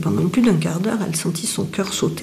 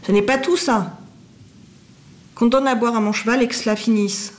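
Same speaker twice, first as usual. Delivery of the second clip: a touch of impatient anger, raised; mild anger; 4 semitones higher than usual. A narrator's reading. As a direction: merchant losing patience over his horse. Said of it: "avec colère". (une pointe de colère)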